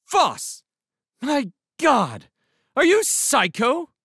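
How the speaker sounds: very high, loud scolding shout; hard, strident shout. A narrator's reading. Woman in doorway confronts the brawling beast, shouting stridently. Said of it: "shouted at the beast in a hard, strident voice".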